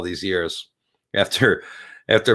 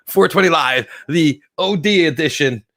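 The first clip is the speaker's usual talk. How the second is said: loud, higher hype-man announcement; mock show announcer; 8 semitones higher, 7 dB louder than usual. Stoned host hamming up his show title, mock announcer. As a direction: announce the show name like a TV promo.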